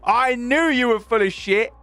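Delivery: high, loud "gotcha" yell; triumphant accusing shout. Retold or imitated. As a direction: crow it over the caught cheat. Retold triumphant accusation of backstabber.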